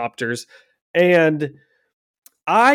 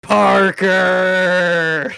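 goblin voice; 5 semitones higher than usual. Pretend. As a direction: hiss the name like a gleeful goblin. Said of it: "You can do a better goblin voice than that".

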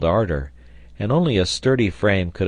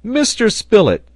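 high, loud cry of astonishment; amazed exclamation; 7 dB louder than usual. A narrator's reading. Sailor learning who found the tobacco, exclaiming in amazement. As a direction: exclaim the name, pitched way up. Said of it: "exclaimed the sailor".

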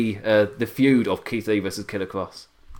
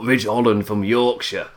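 put-on Yorkshire accent. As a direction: draw it out in a playful Yorkshire accent. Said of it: "I'm dropping the accent".

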